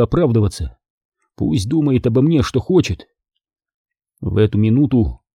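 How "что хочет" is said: ordinary delivery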